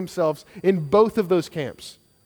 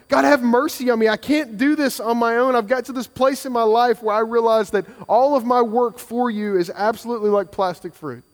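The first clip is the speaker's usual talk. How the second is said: raised, urgent heartfelt plea; earnest cry; 4 semitones higher than usual. Retold or imitated. Tax collector crying out to God for mercy, earnest. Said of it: "it was this cry".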